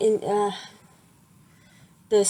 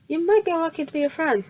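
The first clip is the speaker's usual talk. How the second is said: teasing; 8 semitones higher, faster than usual. Retold or imitated. Teasing boy in dialogue.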